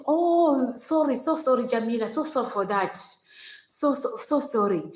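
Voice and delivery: mildly acted, repeated soothing apology; sympathetic apology. Madam consoles her in retold scene.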